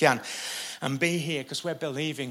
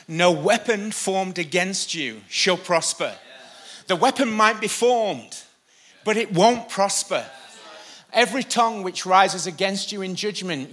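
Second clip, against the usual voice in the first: raised, emphatic scripture declaration; higher-pitched, declamatory preaching; 5 semitones higher, 4 dB louder than usual. Acted. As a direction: proclaim the verse with conviction. Preacher declares a verse forcefully.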